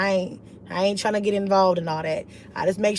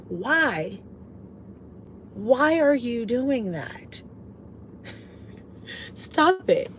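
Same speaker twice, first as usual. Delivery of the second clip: mock weary plea; 3 semitones higher, 5 dB quieter, much slower than usual. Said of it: "I will be like".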